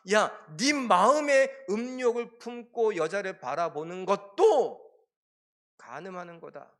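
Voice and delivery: loud, sharp call of a stern Jesus; Jesus confronting a proud Pharisee, loud and stern; stern rebuke. Retold or imitated. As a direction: bark the warning at the smug listener.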